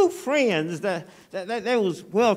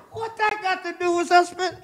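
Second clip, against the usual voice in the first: high, frantic disbelief; panicking man; 12 semitones higher than usual. Acted. Stranded shipwrecked man panicking at his calm friend, high and frantic. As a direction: pitch it up like a man losing his nerve. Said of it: "crying and shouting and panicking".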